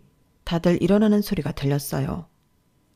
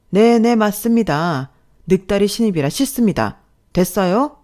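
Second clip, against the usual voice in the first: defiant retort; 4 semitones higher, 6 dB louder than usual. Acted. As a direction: spit it back at the boss. Narrator talks back.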